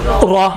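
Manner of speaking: را with thick r and rounded "raw" vowel; full-mouthed را; heavy raa. Shown as a demonstration. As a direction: round the lips on را. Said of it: "یہ موٹا ہے نا".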